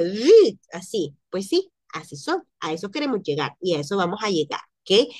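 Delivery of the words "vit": vit rápido. Shown as a demonstration. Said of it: "Pareciera como que".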